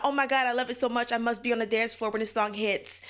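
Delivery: a hint of excitement, mostly plain; understated imitation of a fan's gush; mild mock gush. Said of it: "It's not a".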